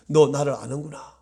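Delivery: low, quietened voice of God; God's gentle recognition. Acted. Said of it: "하나님은 분명히 이렇게 합니다".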